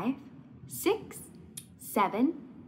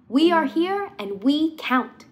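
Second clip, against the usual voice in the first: slow, proud declaration, a bit louder; 4 semitones higher, 4 dB louder, slower than usual. Acted. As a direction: say it proudly, each word firm. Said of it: "to say it loud and proud".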